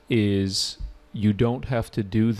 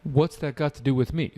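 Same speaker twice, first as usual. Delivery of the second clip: "What's that got to do with me?" echoed a little higher, puzzled; puzzled repeat; 5 semitones higher than usual. Retold or imitated. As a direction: repeat the student's line with mild confusion. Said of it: "Why does the student say this?".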